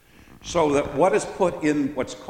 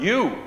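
YOU set apart, higher; emphatic repeated word; 4 semitones higher than usual. Shown as a demonstration. Preacher repeating the word for emphasis, stressed YOU. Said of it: "we repeat the word".

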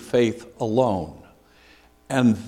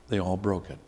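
repeated much softer, like a quiet afterthought; soft echo; 6 semitones lower, 12 dB quieter, faster than usual. Real, not acted. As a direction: let it land in a low murmur.

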